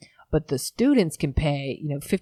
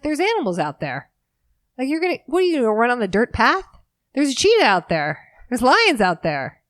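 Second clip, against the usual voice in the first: high, louder mock warning from a laughing guard; hammed-up voice of a guard cracking up; imitating the laughing guard; 8 semitones higher, 4 dB louder than usual. Guard at the gate warns the runner, voiced high and loud. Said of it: "He's like".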